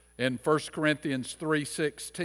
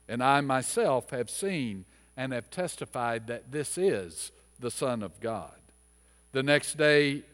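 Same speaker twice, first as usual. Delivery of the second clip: measured, formal reading of the gospel lesson; scripture reading; 2 semitones lower than usual. Acted. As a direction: read the scripture steadily to the congregation. Reads the gospel lesson aloud.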